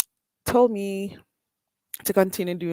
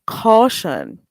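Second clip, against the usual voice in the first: stern caution; 5 dB louder than usual. Real, not acted. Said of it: "let me give a quick, um, caution".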